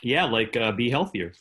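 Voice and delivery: talking while eating sausage; words round a bite of food; mouth full. Real, not acted. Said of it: "What are you eating there?".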